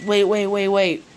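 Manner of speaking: flustered and insistent; alarmed protest. A narrator's reading. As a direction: cut in urgently to stop them. Naruto protests the bed arrangement.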